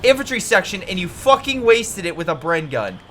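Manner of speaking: furious outburst. Real, not acted. Caster yelling at player wasting veteran squad, furious. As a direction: explode at the wasted squad. Caster erupts at wasted unit.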